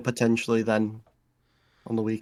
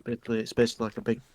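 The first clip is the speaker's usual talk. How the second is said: wolfing down food. Real, not acted. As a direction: mouth full while talking. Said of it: "That's what you're eating?".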